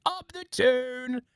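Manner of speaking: high, slow, drawn-out Scouse call; mock Scouse accent. Shown as a demonstration. American copying Scouse from one TikTok, drawn out. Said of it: "supposed to be Scouse, I'm supposed to be like".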